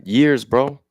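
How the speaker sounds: venting real anger at the system. Real, not acted. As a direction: let the grievance burst out. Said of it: "It's like an anger".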